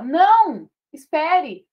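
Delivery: firme, mais alto; pedindo pra esperar. Shown as a demonstration. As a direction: diga com a vírgula marcada, pedindo calma. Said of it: "Se eu falar pra vocês". (pausa clara após o não)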